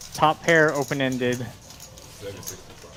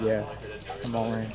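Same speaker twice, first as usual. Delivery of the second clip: softer, lower near-whisper, imitating a player; imitated soft-spoken all-in; 5 semitones lower, 9 dB quieter than usual. Commentator mimics a soft-spoken player's all-in, near whisper. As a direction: say it barely audibly, as an imitation. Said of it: "it's like a whisper".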